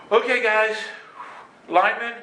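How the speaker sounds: high, loud, halting call to teammates; acted winded encouragement. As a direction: call out between imagined gasps. Retells breathlessly encouraging his team.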